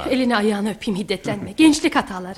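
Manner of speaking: pleading. Acted. Mother pleads with angry son.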